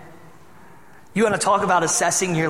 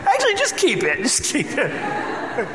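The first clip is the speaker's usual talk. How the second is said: laughing joke; 7 semitones higher, slower than usual. Real, not acted. Joking about giving a broken car.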